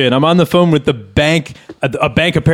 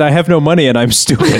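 fast, louder, half-shouted mock indignation; quoting himself, louder; 3 semitones higher, faster than usual. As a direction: throw his own line back at them, indignant. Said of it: "how about when I said".

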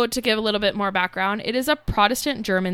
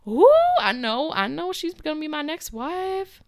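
smitten king; 8 semitones higher than usual. Retold or imitated. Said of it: "He was like".

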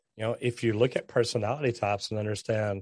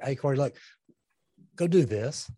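blunt direct order; 2 semitones higher than usual. Shown as a demonstration. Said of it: "I'm like".

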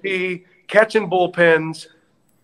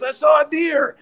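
raised driver's reply; 10 semitones higher than usual. Retold or imitated. Driver answers the manager.

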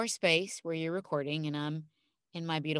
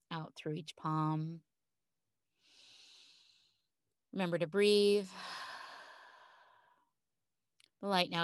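calm grounding exercise; 3 dB quieter than usual. Acted. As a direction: guide them gently into calm. Leads a guided visualization.

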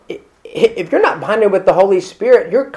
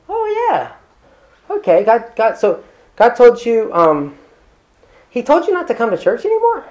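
high, incredulous mock questioning; mock disbelief; 5 semitones higher, 3 dB quieter than usual. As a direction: sceptical pastor questioning a congregant about God's word, incredulous. Pastor mocks a congregant's claim.

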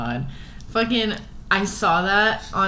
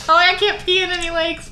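shrieking laugh; 11 semitones higher than usual. Real, not acted. Telling friend she fears the pee fish, shrieking laughter. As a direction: squeal it through laughter.

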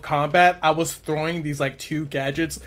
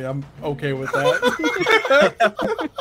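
laughing; 8 semitones higher, much slower than usual. Real, not acted. Laughing at own doom.

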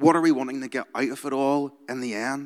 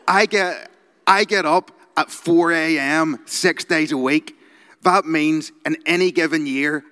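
louder and higher, bragging hard; aggressive motivational speaker; 4 semitones higher, 5 dB louder than usual. Retold or imitated. Quoting the entrepreneur's routine, aggressive and loud. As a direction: boast it like a hustle guru. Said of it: "I'm gonna read you some of his quotes".

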